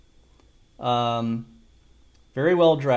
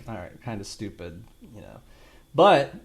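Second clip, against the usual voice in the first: ordinary talk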